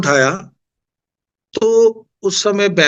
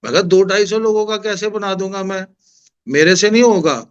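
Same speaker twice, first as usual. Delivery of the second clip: raised voice; 4 semitones higher than usual. Retold or imitated. To Bambi aunty on the phone, refusing the langar job, raised voice. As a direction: push the voice up a notch, pleading you can't do it. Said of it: "थोड़ी ऊंची आवाज में बोल रहा हूँ".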